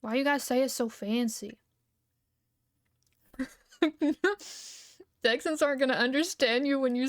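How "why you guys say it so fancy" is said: hushed impressed whisper; whispered amazement. Retold or imitated. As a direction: breathe it out, awed. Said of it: "I'm like".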